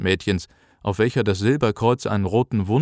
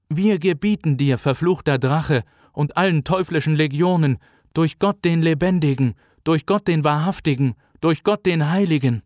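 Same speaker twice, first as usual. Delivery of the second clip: raised, solemn commanding ritual voice; exorcist's incantation; 6 semitones higher than usual. Acted. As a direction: cast out the demon with authority. Exorcism resumes. (feierliche Beschwörung einer Exorzistin)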